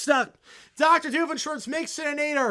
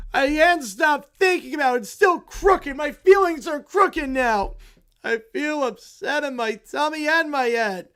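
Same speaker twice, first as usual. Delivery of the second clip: put-on loud, higher childish whining; whiny kids; 3 semitones higher, 5 dB louder than usual. The kids beg for help over the crooked tree, whiny and loud.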